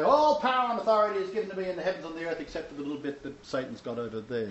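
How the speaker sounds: lightly mocked grand declaration; mock proclamation. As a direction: reel off a slightly hammed-up pronouncement. Acts out words Yeshua never said.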